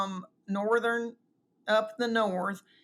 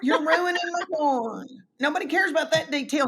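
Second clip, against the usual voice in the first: higher, fast mock complaint; mock exasperation; 6 semitones higher, 3 dB louder than usual. Wife scolding husband for ruining her yarn, mock exasperation. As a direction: scold him for ruining the story. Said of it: "And I go".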